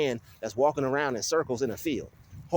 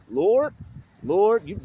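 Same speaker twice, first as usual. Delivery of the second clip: loud, raised cry to heaven; exasperated calling out; 5 semitones higher, 6 dB louder, much slower than usual. Real, not acted. Vlogger calling on the Lord, exasperated and loud. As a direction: call up to God, louder and higher.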